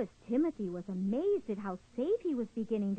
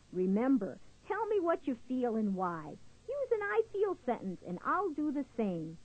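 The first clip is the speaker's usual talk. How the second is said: reassuring. Acted. Squirrel soothes crying Louis.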